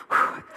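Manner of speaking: short puffed-out whew; winded whew. Real, not acted. Speaker winded from acting out running, puffed whew. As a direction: blow out a breath from exertion.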